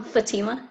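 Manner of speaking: "Fatima" stressed on the middle syllable, fuh-TEE-muh; tentative "Fatima" with the stress on TEE; preferred name pronunciation. Shown as a demonstration. Student showing teacher her name, "Fatima" stressed on TEE. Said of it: "say your name the way that you like".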